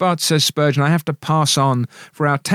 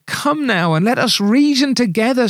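pleading; 7 semitones higher than usual. Retold or imitated. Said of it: "the Lord expostulates and then pleads".

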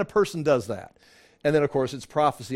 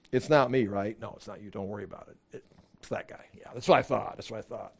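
much softer, lower, half-whispered back and forth; quiet mock exchange; 7 semitones lower, 8 dB quieter than usual. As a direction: murmur the reassurance privately. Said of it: "asking Jesus to reaffirm".

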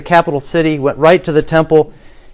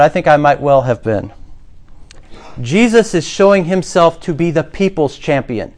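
ordinary talk

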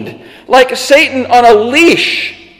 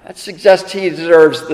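ordinary delivery

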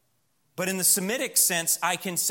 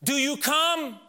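gatekeeper angel; 8 semitones higher than usual. Acted. Angel at heaven's gate questions the thief, lightly voiced. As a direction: play the angel quizzing the newcomer, mildly. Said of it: "the angel at the gate of heaven saying".

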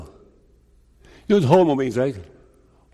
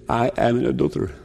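sinner confessing; 4 semitones lower, 3 dB quieter, much faster than usual. Retold or imitated. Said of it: "You say".

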